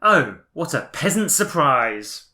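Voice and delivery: mock posh noble. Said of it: "what did the noble say".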